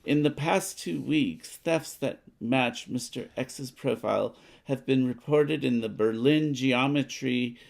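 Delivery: lightly voiced news report, read out steadily; a hint of a radio announcer; newspaper read. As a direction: read the card like a news bulletin. Reads newspaper card aloud.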